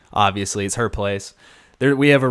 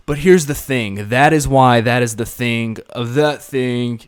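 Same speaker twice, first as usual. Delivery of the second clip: mock drunk nonsense. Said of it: "just started making no sense".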